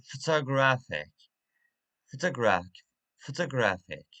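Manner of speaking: "photographic" with the stress on its third syllable, graph. Shown as a demonstration. Teacher repeating an example for learners, third syllable of "photographic" stressed. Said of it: "the stress at, uh, third syllable".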